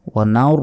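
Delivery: "নার" with rounded lips and a heavy r; মোটা র. Shown as a demonstration. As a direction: darken the end of "নার" toward "naur". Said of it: "পুর বা মোটা করে উচ্চারণ হবে". ("নার" ঠোঁট গোল করে, মোটা র)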